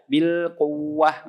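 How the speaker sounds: Bil quwwah very slow, ww even, no push; wrong, no nabr. Shown as a demonstration. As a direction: say quwwah flat on the ww.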